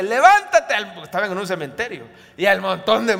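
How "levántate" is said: a loud, high command; commanding order. Shown as a demonstration. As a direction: order the dead to rise. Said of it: "más es una orden". (orden fuerte y aguda)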